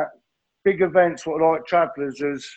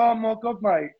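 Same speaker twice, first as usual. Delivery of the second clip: pitched up, a hammed-up gasp of disbelief; mock shocked friends; 7 semitones higher, 3 dB quieter than usual. Friends hearing he's on six pills, hammed-up shock. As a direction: play the mates reeling at the number.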